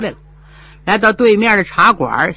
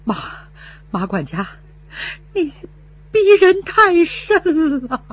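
trembling rage; 7 semitones higher than usual. Acted. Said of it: "气得浑身发抖，上气儿不接下气".

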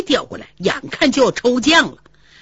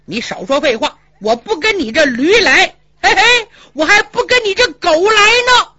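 boastful quarrel; 4 semitones higher than usual. Acted. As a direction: dare him to play a game.

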